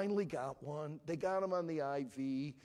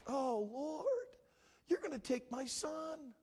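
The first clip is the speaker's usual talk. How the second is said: a touch of pleading panic, pitched higher; panicked prayer; 9 semitones higher, slower than usual. Retold or imitated. Father retells praying alone in the hospital room, mildly panicked. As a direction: cry out to God half-breaking, retold. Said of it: "And I'm all freaking out".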